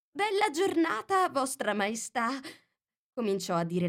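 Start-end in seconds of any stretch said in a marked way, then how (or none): none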